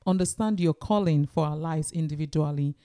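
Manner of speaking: earnest, even-toned prayer; spoken prayer. Real, not acted. Co-host closing the episode by thanking God, prayerful. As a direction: pray aloud in a measured, conversational voice.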